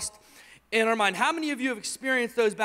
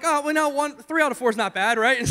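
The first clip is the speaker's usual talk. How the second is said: mock nonchalance; 4 semitones higher, 4 dB louder than usual. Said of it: "So I'm just kidding".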